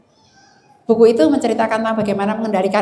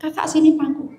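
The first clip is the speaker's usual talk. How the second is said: gentle call; 5 semitones higher than usual. Retold or imitated. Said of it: "memanggil dengan suara yang lembut".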